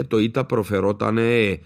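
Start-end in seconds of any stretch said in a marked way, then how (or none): 1.2-1.6 ε held as a long open "eh"; long vowel. Shown as a demonstration. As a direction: draw out the ε. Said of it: "ήταν μακρό".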